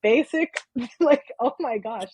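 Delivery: mock exasperated self. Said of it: "and I'm like".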